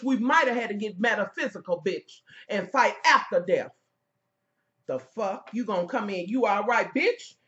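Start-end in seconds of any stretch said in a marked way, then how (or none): 6.3-7.4 mocking imitation. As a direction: parrot her fake sympathy with scorn. Mimicking the rival's fake concern.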